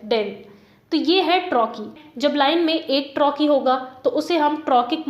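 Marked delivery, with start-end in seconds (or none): 0.1-0.3 डेन let go lightly, lower in pitch; low, unaccented डेन; unstressed syllable. Shown as a demonstration. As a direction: drop डेन as the weak second beat of गार्डन. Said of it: "दूसरा वाला unstressed है".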